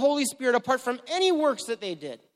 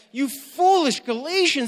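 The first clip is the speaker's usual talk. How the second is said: higher and louder, exasperated; upset rebuke; 5 semitones higher, 4 dB louder than usual. Retold or imitated. Paul rebuking foolish Galatians, angry and higher. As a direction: scold them, really upset. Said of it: "he's angry. He's really upset".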